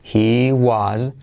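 "He was determined" alargado y lento; muy despacio. Shown as a demonstration. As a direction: articula "determined" sílaba a sílaba. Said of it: "Fíjate la transcripción". (lento y claro, para que lo copien)

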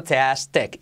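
"tastic" split into tas-tic, final vowel near e; segunda parte silabeada. Shown as a demonstration. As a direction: finish "tastic" syllable by syllable. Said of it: "Y como E". ("tastic" por sílabas, la i casi e)

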